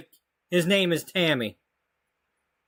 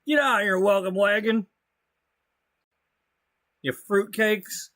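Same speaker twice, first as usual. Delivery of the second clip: a hint of a cranky old man shouting, higher; mock yelling; 4 semitones higher than usual. Player imagines yelling at kids on the lawn, mock cranky shout. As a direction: yell at the kids off your lawn, half playful. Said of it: "you come out and yell at 'em".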